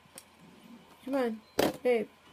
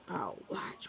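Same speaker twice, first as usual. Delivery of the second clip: shy pet voice; 5 semitones lower, 8 dB quieter than usual. Retold or imitated. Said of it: "Babe says".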